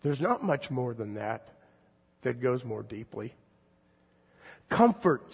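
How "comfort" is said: raised, proclaiming as God. Acted. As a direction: call it out like God speaking. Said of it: "says God".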